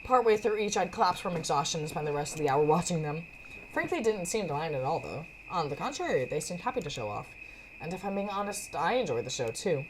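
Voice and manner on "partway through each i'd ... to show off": measured first-person storytelling; story narration. Acted. Narrator recounts keeping up with Frankie on workouts, storytelling. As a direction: read it like an audiobook.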